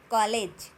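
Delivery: कॉलेज loud, with rounded o; correct pronunciation model. Shown as a demonstration. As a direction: model kaw-lej for कॉलेज. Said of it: "क्या बोलना है?". (कॉलेज, गोल ऑ, ज़ोर से)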